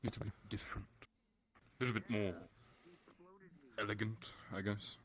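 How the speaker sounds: elegant posh British voice; soft upper-class English; British posh accent. Shown as a demonstration. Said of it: "British posh".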